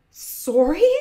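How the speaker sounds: loud, high incredulous question; indignant. A narrator's reading. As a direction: throw the word back in outrage. Angry sister throws word back.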